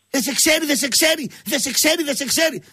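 high, frantic repeated mock panic; agitated, insistent retold pleading; acted anxiety. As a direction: imitate someone hopping with nerves on the phone. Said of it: "Χοροπηδούσε με το, με το τηλέφωνο".

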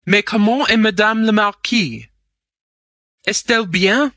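high, loud question in French; urgent French questioning. A narrator's reading. Asking the maid after the Marquise, urgent.

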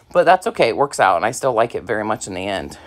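breathless, winded talk; speaking short of breath. Real, not acted. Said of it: "I'm sorry I'm out of breath".

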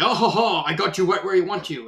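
lightly voiced villain gloat; half-acted smug mock villain. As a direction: chuckle the taunt like a cornered-you villain.

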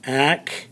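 teacher breaking "Activity" apart for learners; syllable by syllable. Shown as a demonstration. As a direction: sound out "Activity" as ac, tiv, i, tee. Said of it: "listen to the syllables in that".

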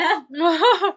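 high, loud laughing fit; burst of laughter. Real, not acted. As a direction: crack up at the joke. Laughs at the meme. (爆笑)

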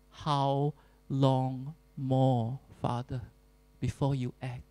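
understated, worn-out lament to the Father; quiet lament. Pretend. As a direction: let the plea fade into a weary sigh. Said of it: "we go to God and we say".

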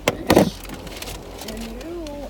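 voicing the dog. Voicing dog's complaint.

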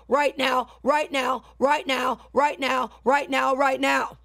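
insistent repeated commands; commanding healing decree. Acted. Preacher commanding disease to leave viewers' bodies, insistent decree. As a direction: drive the disease out with each right now.

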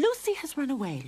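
high, indignant mother; mild anger, pitched high; angry. A narrator's reading. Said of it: "Lorene said angrily".

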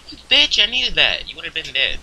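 very high, loud outburst, easing off toward the end; indignant yell. Real, not acted. Player scolding another over something needed in game, indignant yell. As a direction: yelp the complaint at full pitch.

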